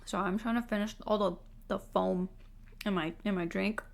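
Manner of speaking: talking with a mouthful; words around a bite; chewing while talking. Real, not acted. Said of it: "Can you hear me eating in the mi".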